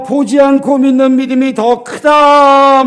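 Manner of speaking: preacher voicing Jesus solemnly. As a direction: deliver it slowly as Jesus' verdict. Quoting Jesus to Thomas.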